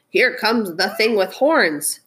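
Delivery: slow, mild storybook shout; lightly voiced rabbit sounding the alarm. Rabbit warning of the horned thing, mild shout. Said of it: "shouted a rabbit".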